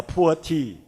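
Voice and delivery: "poor" in place of pu'er, run into one word; typical local intonation. Shown as a demonstration. Presenter showing how the name goes wrong, "poor" as one English word. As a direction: let "poor" sound like the English word for no money. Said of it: "with your typical intonation, it may become".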